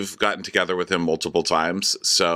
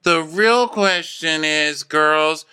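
dramatic host voice; 5 semitones higher, much slower than usual. Retold or imitated. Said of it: "so Amanda's like".

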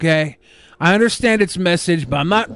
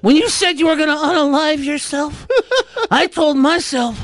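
wrestling promo voice; 5 semitones higher than usual. Pretend. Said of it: "gonna give you a good promo".

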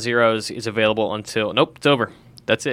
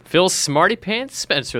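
laughing; 7 semitones higher, slower than usual. Real, not acted. Teasing nickname while laughing.

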